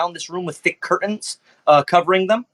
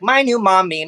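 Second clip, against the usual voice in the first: put-on childlike robot voice; 5 semitones higher, 3 dB louder than usual. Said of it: "She's like".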